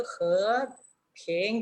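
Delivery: "he, ping" each from bottom to top; two separate sweeping rises in "he, ping"; full-range rises. Shown as a demonstration. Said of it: "de lo más bajo".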